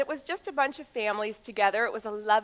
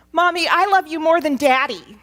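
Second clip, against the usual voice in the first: shouting; 6 semitones higher, 10 dB louder than usual. Retold or imitated. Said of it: "And he shouts".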